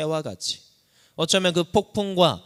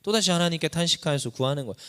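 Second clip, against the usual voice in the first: ordinary delivery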